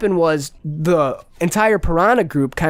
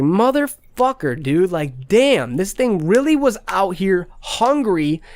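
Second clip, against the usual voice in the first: drawn-out higher curse, then venting; slow disgusted curse; 4 semitones higher than usual. Retold or imitated. Finding his baby piranha dead, slow disgusted curse. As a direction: stretch the swear out in disgust. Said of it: "I was so mad, bro".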